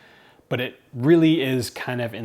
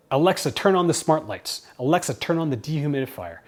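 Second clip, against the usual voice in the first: authoritative command. Shown as a demonstration. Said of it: "that's the same tone that I have".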